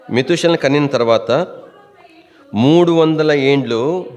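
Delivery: measured reading with long pauses between phrases; scripture reading. Real, not acted. Preacher reading Genesis to the congregation, deliberately. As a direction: read the verse out phrase by phrase, drawing out endings.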